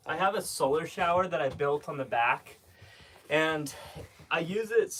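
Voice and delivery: winded, short of breath. Real, not acted. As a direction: talk while catching breath. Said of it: "Why are you so out of breath?".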